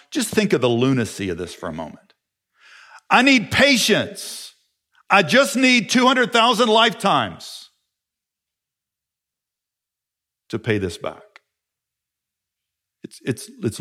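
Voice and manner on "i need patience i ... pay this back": high, pleading mock voice; mocking the servant's plea. Pastor mocks the debtor begging for time, high pleading. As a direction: ham up the desperate debtor.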